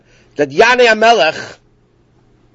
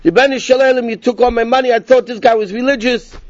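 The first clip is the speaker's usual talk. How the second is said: raised, high-pitched mock outrage; retold yelling; 6 semitones higher than usual. Cheated traveler yelling at the rabbi over his money, high mock outrage. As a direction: cry out as if robbed, pitch well up. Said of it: "started yelling and screaming".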